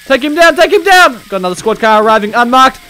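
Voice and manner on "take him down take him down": loud, high command to take him down; shouted order. Pretend. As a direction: bark it at the squad. Ordering officers during a shootout.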